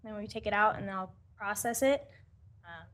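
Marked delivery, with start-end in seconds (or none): 2.7-2.8 quick whisper to a coworker; whispered aside. Real, not acted. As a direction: whisper it fast, off-mic. Quiet aside to colleague mid-presentation.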